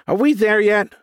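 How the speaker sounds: put-on high, loud whiny kid. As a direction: whine it like a bored child. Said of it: "Trace said in a whiny voice".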